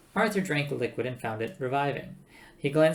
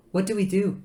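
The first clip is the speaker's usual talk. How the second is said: higher, louder worried asking; nervous question; 8 semitones higher, 6 dB louder than usual. A narrator's reading. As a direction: ask anxiously for a plan. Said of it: "said Trillian nervously".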